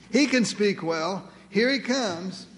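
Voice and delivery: slow, drawn-out sarcastic God; heavenly sarcasm. Acted. God points Moses to his brother coming, slowly sarcastic. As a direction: stretch each word with pointed irony. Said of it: "Heavenly sarcasm".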